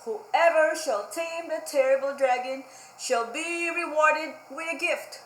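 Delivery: a hint of a grand herald reading; lightly voiced royal announcement; royal proclamation. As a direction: read it out like a pompous decree. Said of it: "and it says".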